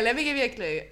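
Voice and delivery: normal talking voice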